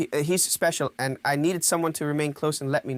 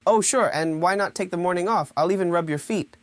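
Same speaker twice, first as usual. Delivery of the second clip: mock-obliging sarcasm; dry sarcastic generosity. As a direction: offer favours you clearly don't mean. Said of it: "I sense sarcasm".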